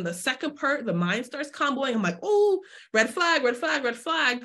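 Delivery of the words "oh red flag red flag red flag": high, slow alarm-bell "Oh, red flag"; playfully voiced inner warning siren; mock alarm. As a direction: sound the alarm in your own head, slowly.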